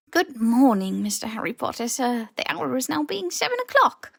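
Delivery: high, beaming elf voice; squeaky house elf. Acted. House elf greeting Harry, high and squeaky. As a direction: pipe up high and bright as the elf.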